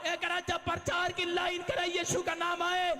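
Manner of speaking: fiery preaching. Acted. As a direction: rouse the church to shout back amen. Preacher rousing congregation.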